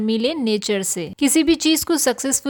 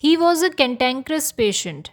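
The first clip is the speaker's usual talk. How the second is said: very slow, careful teacher reading; slow example sentence; much slower than usual. Shown as a demonstration. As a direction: read it out slowly for learners.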